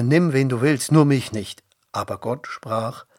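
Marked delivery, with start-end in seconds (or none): 0.0-1.6 loud, pleading protest; calling out. A narrator's reading. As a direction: beg off with a raised voice. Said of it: "rief Mose".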